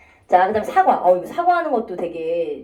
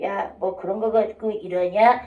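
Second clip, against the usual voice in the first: slow, understated brush-off instead of an apology; mock dismissive remark, slowed down; 3 semitones lower, slower than usual. Shown as a demonstration. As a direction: drag it out, lower, shrugging it off. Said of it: "부끄러워서 그런 행동을 할 수가".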